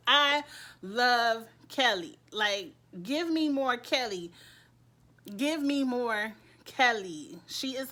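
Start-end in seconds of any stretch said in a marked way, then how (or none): 0.1-6.3 gushing. Real, not acted. Gushing over favorite character.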